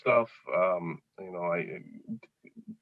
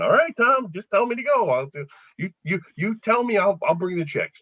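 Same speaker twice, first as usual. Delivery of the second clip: high-pitched, mock-obliging reply; lightly hammed-up yes-man; eager compliance; 6 semitones higher than usual. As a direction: act out eagerly giving in to the boss. Acted eager reply to grumpy manager.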